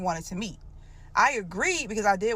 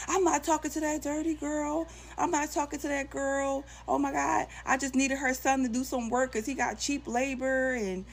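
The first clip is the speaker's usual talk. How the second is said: pleading husband; 5 semitones higher than usual. Retold or imitated.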